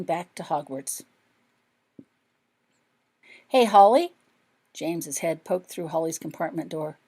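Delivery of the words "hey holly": a bright called-out "Hey, Holly?" with a lift; calling out. A narrator's reading. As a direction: call to her through the door. James calls from the door.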